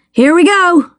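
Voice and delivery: high, eager cry as the race starts; excited shout. A narrator's reading. Boy shouting to his friend as the flag drops, high and excited. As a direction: call it out, thrilled the race is on. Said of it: "Dale shouted".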